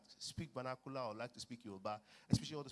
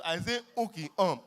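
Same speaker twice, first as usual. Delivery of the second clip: flustered reply; 7 semitones higher, 14 dB louder than usual. Retold or imitated. Flustered speaker stumbling for English.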